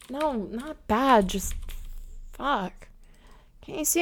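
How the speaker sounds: quiet, repulsed under her breath. Acted. Muttering quietly to her roommate, grossed out. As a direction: recoil and say it softly. Disgusted low remarks to roommate.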